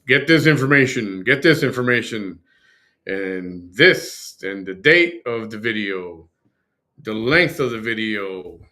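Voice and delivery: loud, commanding instructions; bossy orders. Pretend. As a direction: bark out orders. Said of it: "she's telling them".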